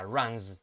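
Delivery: runs ending in a buzzing Z; Z sound. Shown as a demonstration. Teacher showing the class runs with a Z sound. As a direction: say runs with a voiced Z at the end. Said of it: "runs debería ser pronunciado con la Z".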